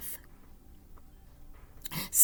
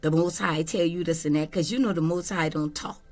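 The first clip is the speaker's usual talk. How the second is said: low, lecturing family member; a low, preachy scolding voice; scolding relative; 7 semitones lower than usual. Retold or imitated. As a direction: talk down to John like a disapproving aunt. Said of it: "this is just an example".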